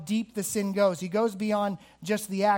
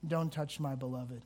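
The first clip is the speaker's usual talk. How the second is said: Jesus to Satan; 4 semitones lower, 5 dB quieter than usual. Acted. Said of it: "hold up the receipt and go".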